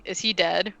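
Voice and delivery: retold deadpan question, no emotion. Bill walks up to the body on a gurney, deadpan. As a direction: ask it totally deadpan. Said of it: "just, like, deadpan".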